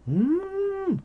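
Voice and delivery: talking between bites; chewing food. Real, not acted. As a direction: mouth full while speaking. Seen 3: Eats octopus just before, cheeks working and chewing through cough.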